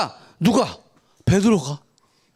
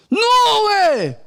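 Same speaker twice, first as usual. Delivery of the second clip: shocked refusal; 6 semitones higher than usual. Retold or imitated. Peter refusing Jesus's death, shocked outcry. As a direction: blurt it out like you can't accept it. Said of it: "이렇게 된 거야".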